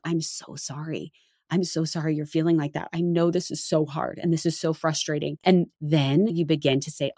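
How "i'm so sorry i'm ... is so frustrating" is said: soothing parent. Retold or imitated. Soothing a sad child.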